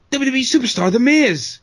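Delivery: put-on high-pitched child announcing a superstar; hammed-up cheesy kid from an ad; mock excited kid. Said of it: "no one talks like that".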